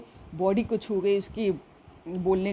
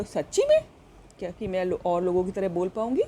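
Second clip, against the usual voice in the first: hopeful disbelief; faster than usual. Acted. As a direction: ask it wide-eyed, barely believing. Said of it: "as if to ask really". (हैरानी भरी उम्मीद से पूछना)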